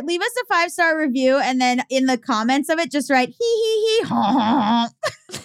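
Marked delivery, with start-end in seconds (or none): 3.3-5.4 mock laugh. Host dictating a review comment to listeners, mock laugh.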